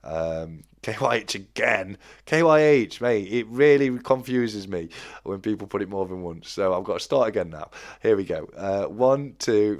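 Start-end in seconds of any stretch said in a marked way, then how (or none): 2.3-4.9 raised, higher call to a viewer, half exasperated. Real, not acted. Streamer calls out a viewer who posted twice, raised and exasperated. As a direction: call out over the chat, amused frustration.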